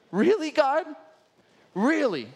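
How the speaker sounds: high, loud, exasperated disbelief; disbelieving outcry. Retold or imitated. Ananias protesting to God, loud incredulous cry. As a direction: throw it back at God, can't believe it.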